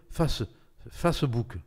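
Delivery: "Facebook" read as French, "fass-bouk"; prononciation française. Shown as a demonstration. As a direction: say "Facebook" with French a and ou, slowly spelled out by sound. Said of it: "selon la prononciation française". (« Facebook » prononcé à la française, « fasse-bouk »)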